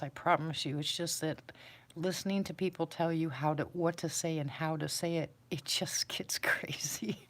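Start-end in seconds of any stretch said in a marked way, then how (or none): 5.5-7.2 laughing whisper. Real, not acted. Laughing at the rules.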